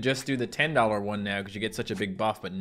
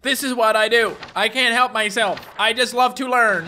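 higher, louder cocky character voice; pitched-up bragging character; gloating avatar; 10 semitones higher, 7 dB louder than usual. Acted. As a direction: crow about graduating. Avatar celebrates graduating.

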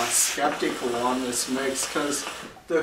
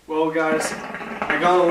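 just exhaled hookah smoke; smoky breath while speaking; talking through exhaled smoke; 3 semitones higher, 4 dB louder than usual. Real, not acted. Seen 0: Left speaker's face wrapped in exhaled smoke during first words, clear after.

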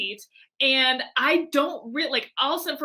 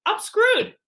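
high, loud laughing despair; mock panic; 10 semitones higher, 6 dB louder than usual. Founder watching a rival on stage, high laughing panic. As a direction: wail it, half laughing.

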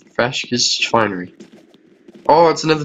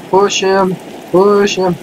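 high, insistent repeated cry; excited urging; 6 semitones higher, much slower than usual. Real, not acted. Player tries to push a guy off, excited urging. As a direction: egg it on, high and eager.

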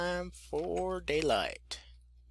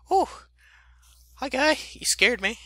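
scream into giggles; 10 semitones higher, 4 dB louder than usual. Real, not acted. Startled by creature in game.

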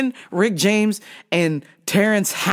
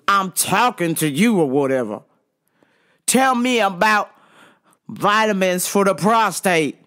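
mock demanding voice; aggressive customer; 2 semitones higher than usual. Customer demanding vitamins from the coworker, aggressively. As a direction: imitate a pushy, impatient man. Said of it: "the attitude is very aggressive".

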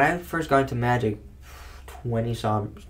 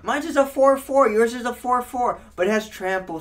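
smug opponent; 9 semitones higher than usual. Retold or imitated. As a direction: explain it like a smug know-it-all.

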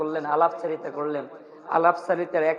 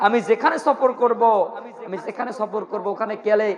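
mildly indignant rebuke, pitched up; retold scolding; 3 semitones higher than usual. King telling off Bahlul for foolish questions, mock scolding. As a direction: give an acted telling-off, mostly raised in pitch. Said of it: "ধমক দিয়ে বলতেছেন".

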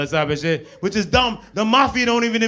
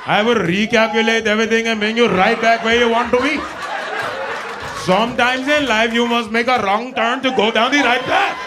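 put-on Indian accent. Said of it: "He be like".

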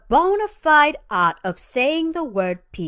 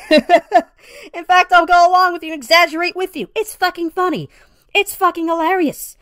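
laughing; 5 semitones higher, 4 dB louder than usual. Real, not acted. Laughing, excited.

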